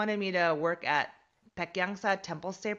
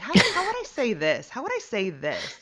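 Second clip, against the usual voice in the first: imitating pushy Daisy; 5 semitones higher, 5 dB louder than usual. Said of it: "Daisy is, like, a very kind of aggressive person".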